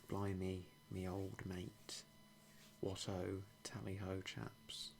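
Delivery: hammed-up old-fashioned English toff, lightly voiced; a jolly stiff-upper-lip chap, half-whispered; a light send-up of an upper-class Brit; mock posh British. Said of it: "nice caricature of British culture".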